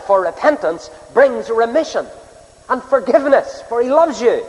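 earnest preaching. Real, not acted. Preacher urging the unconverted to repent and believe, earnest preaching. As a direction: preach it with rising, emphatic phrases.

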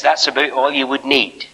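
lightly imitated Scottish clergyman; a touch of a small Scottish voice; little Scottish voice. Clergyman finishing his rebuke, lightly done little Scottish voice. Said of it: "in his little Scottish voice".

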